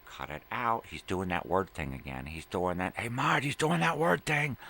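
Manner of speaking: loud, rising mock outrage; tattling shout. Tattling to Mart about the word thing, shouted protest.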